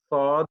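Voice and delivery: সদ with a round heavy o, not সাদ; heavy sad. Shown as a demonstration. Teacher correcting সাদ to heavy সদ. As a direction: say সদ full and round. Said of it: "সাদ না, সদ".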